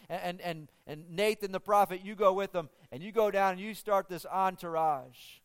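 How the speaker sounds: rally the men like a king giving orders; excited royal command; rousing orders. Retold or imitated. David gives orders to men.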